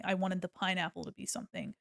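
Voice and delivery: ordinary delivery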